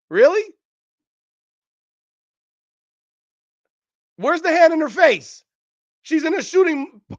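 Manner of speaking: can't believe anyone calls that contested; exasperated disbelief. Real, not acted.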